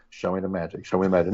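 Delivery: casual impression of an actor calling on the sky; John Cassavetes. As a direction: lightly imitate an actor doing Shakespeare. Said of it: "look up at the sky and go".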